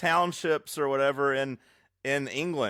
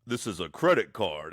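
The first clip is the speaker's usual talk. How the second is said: imitating a stereotype voice; 9 semitones lower than usual. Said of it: "made his eyes big and spoke".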